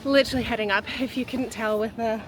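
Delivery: breathless from the climb uphill; panting between words while walking; out of breath. Real, not acted. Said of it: "how out of breath".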